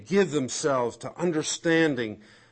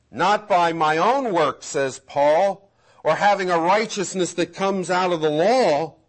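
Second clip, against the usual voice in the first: emphatic, raised pulpit recitation; forceful, driving Bible quotation; impassioned scripture preaching; 3 semitones higher, 3 dB louder than usual. Acted. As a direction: proclaim the verse with conviction.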